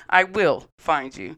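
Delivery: slow, loud, lightly voiced movie threat; Liam Neeson. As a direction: quote the action-film line slowly and firmly. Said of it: "Taken Lisa, uh, Liam Neeson".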